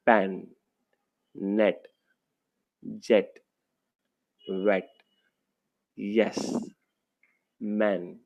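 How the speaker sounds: each word read apart with pauses; teacher reading a word list; word list read-aloud. Shown as a demonstration. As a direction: say each word clearly for the class. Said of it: "तो यहाँ देखिए बच्चों".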